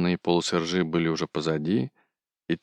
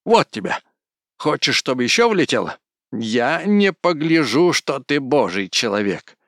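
higher, louder threatening shout; furious threats; 8 semitones higher, 6 dB louder than usual. A narrator's reading. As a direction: yell threats after the blow. Кузьма after hitting Ефрем.

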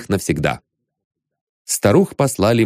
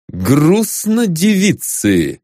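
icy and slow, drawn out; cold brittle frosty whisper; 5 semitones higher, much slower than usual. Acted. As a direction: freeze them with every word. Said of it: "ледяным голосом сказал Остап". (ледяным голосом)

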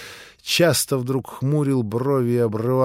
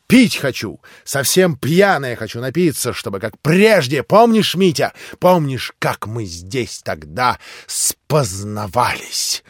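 reckless revelling. Acted. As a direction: demand wine and memories. Drunk Grushenka revels.

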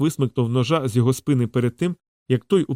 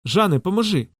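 calling out; 7 semitones higher than usual. A narrator's reading. Locke calling out for Jean.

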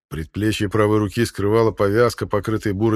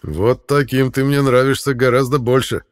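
approving; 4 semitones higher, 6 dB louder than usual. A narrator's reading. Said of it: "одобрительно кивнул конунг".

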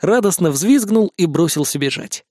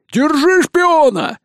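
much higher, slow, drawn-out gloating shout; gleeful rat cry; 12 semitones higher, 4 dB louder, much slower than usual. A narrator's reading. Hungry rats gleefully grabbing the mouse spy, high drawn-out cry. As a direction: crow over the caught spy. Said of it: "обрадовались голодающие".

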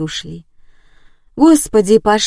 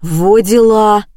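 loud, slow exclamation; exclaiming loudly; 6 dB louder, slower than usual. Acted. Old neighbour arrives, loud slow exclamation. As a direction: call out in amazement. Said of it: "выкрикнуло новое действующее лицо".

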